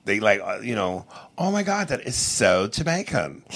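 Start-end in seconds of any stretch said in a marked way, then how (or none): 1.4-3.4 impressed non-Jamaican. Retold or imitated. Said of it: "To somebody that ain't, don't speak Jamaican, they like".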